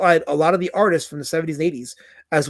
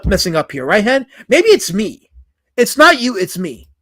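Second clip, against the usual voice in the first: hammed-up sarcastic self-blame, louder; mock apology; 3 semitones higher, 5 dB louder than usual. Streamer sarcastically apologizing to Hen in chat, mock contrite. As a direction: pretend to grovel to the chat member. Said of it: "mock apology to chat".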